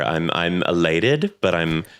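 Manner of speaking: smooth jazz calm. Shown as a demonstration. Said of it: "smooth jazz elated".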